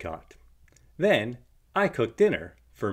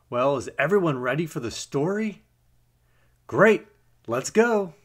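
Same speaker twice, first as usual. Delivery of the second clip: excited; 5 semitones higher, 4 dB louder than usual. Real, not acted. Narrator hyping kids to start.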